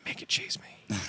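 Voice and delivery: whispered Walken impression; Christopher Walken. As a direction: hush it out like a conspiratorial Walken. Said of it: "he does it in Christopher Walken's voice".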